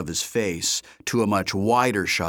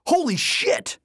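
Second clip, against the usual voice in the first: excited shout. A narrator's reading. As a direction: shout it out in disbelief. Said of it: "he shouted".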